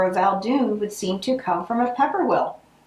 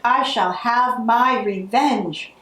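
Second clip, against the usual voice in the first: slow villain vow; 3 semitones higher, slower than usual. Acted.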